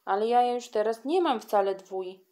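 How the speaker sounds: put-on a girl answers her bully back, defiant. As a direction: stand her ground, unbowed.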